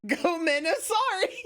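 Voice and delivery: high, slow Southern take on Japanese; imitating Southern-accented Japanese. Streamer echoing the video, mock Southern accent. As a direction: echo the Southern accent, drawn out and amused. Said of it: "Japanese in a southern accent".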